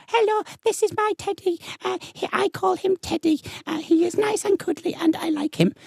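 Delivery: put-on high, small child voice reciting; squeaky little kid droning through it; mock child presenter; mimicking a bored child. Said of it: "all the kids would just sort of basically go".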